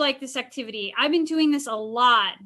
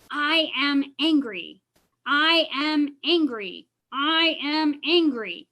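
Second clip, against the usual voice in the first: slow, deliberate, repeated; slow repeated affirmation; slower than usual. Shown as a demonstration. Counselor modelling the repetition, slow and deliberate. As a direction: let each one land slowly. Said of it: "you say it, like, five times".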